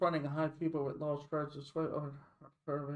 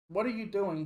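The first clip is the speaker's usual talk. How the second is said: high, loud angry shout; doctor's shout; 5 semitones higher, 5 dB louder than usual. Acted. Storming doctor shouts at Kime, angry and loud. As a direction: bark the question at him. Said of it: "he shouts at Kime".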